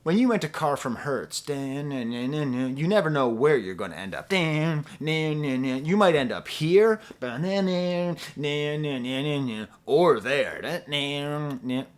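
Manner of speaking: a lightly voiced ad announcer with a sung dun dun guitar riff; a hint of a TV commercial voice over a hummed riff; mock car commercial. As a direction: ham up a rental car ad. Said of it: "sounded like a rental car commercial".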